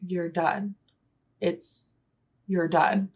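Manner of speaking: soft, low imitation of a gaming partner; quiet shutdown. Partner silencing the accent practice, quietly firm. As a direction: imitate someone quietly shutting you up. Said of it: "slowly put his hand over my mouth".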